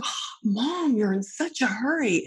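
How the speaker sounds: a hint of a chiding kid; daughter's voice. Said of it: "And she goes".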